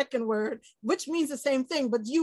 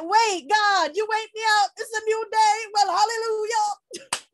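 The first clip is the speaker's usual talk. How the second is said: joyful praise; 8 semitones higher, 4 dB louder than usual. Retold or imitated. Voiced prayer of joy, praising.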